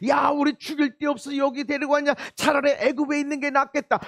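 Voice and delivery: shouted complaint at the leaders; angry shout. Retold or imitated. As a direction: bark it at Moses and Aaron. Israelites shouting at Moses.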